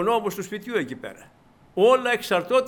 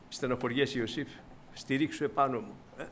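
gentle comfort; 6 semitones lower, 7 dB quieter than usual. Retold or imitated. God comforting Joseph.

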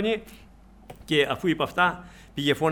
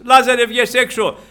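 loud, raised command; calling out; 7 semitones higher, 11 dB louder than usual. Acted. Preacher voicing Jesus summoning Lazarus from the tomb, loud call. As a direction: call it out high and forceful.

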